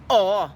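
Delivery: firm, drawn-out "Aw"; Bahamian aw. Shown as a demonstration. Host repeats the Bahamian declarative, firm and short. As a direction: say "Aw" like a full stop. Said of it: "aw is the Bahamian declarative".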